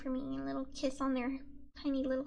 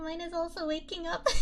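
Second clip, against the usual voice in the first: laughing; 3 semitones higher than usual. Real, not acted. Streamer laughing at her own small win. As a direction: repeat it through a giggle. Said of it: "repeats it laughing".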